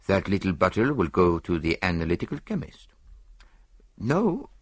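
put-on measured foreign-accented detective; composed, precise Poirot; Poirot, calmly explaining.

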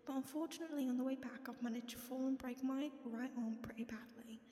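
put-on British reading voice; British accent. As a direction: read the announcement in a makeshift British accent. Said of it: "this is my British accent".

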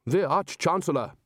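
slow, self-important grumble; a touch of a pompous grumble; grumbled. A narrator's reading. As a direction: grumble your own rank. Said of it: "he grumbled".

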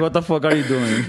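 mock disbelief, breaking into laughs; laughing retelling. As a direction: quote it through laughter. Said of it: "and then Thiago's like".

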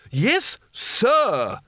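high-pitched indignant snap; snapped correction. A narrator's reading. Spelter corrects the boy's manners, high and snapping. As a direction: snap it high, demanding respect. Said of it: "snapped Spelter".

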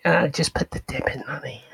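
breathy, hushed come-on; soft, whispered mock flirting; mock sexy whisper. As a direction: whisper it like a parody seduction. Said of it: "not coming with that sexy energy".

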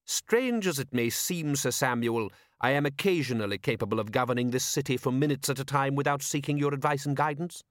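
lightly voiced, dry ruler; sarcastic patrician. Patrician answering Vimes's complaint, drily sarcastic. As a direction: put him down with polite irony.

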